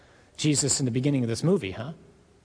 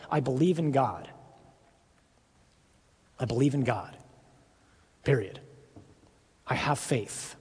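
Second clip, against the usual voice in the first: quiet declaration; 3 semitones lower, 4 dB quieter than usual. Retold or imitated. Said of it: "I declare in front of hell".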